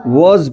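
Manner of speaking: वॉज drawn out slowly with rounded "o"; a slow "woz" for वॉज; correct pronunciation. Shown as a demonstration. Teacher repeating the right reading for students, correct pronunciation. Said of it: "वॉज पढ़ते हैं".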